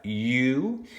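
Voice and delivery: "U" held as a long you sound; first syllable alone. Shown as a demonstration. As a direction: stretch "U" as its own syllable. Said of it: "for the first syllable".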